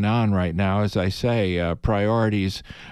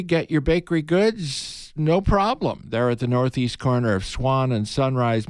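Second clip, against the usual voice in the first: ad read; 3 semitones higher than usual. Acted. Host reads sponsor ad.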